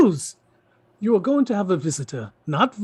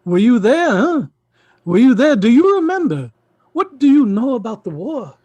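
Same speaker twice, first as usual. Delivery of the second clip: raised, louder, insistent questioning; heated challenge; 4 semitones higher, 5 dB louder than usual. Acted. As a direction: press them hard with each question. Uncle challenges niece in quarrel.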